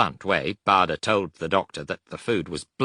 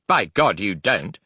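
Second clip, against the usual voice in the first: loud, high panicked outburst; bursting out; 3 semitones higher, 6 dB louder than usual. Acted. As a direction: blurt it in panic. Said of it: "Bader burst out".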